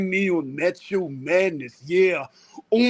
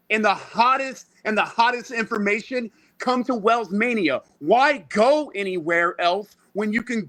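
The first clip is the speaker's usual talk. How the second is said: wrestling promo; 3 semitones higher than usual. Acted. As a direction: hype the show like a wrestler on the mic. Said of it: "I was gonna cut a promo".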